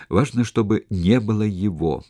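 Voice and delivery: выделить местоимение «его»; сделай упор на «его» в конце фразы; ударение на «его». A narrator's reading. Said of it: "Он подчеркнул и это местоимение". (подчеркнуть слово «его»)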